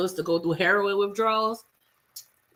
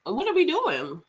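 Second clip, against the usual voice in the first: exasperated; 6 semitones higher, slower than usual. Retold or imitated. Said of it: "And I'm like".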